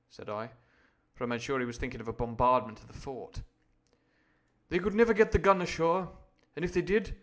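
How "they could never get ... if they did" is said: urgent objection. A narrator's reading. Doctor's urgent objection, read aloud.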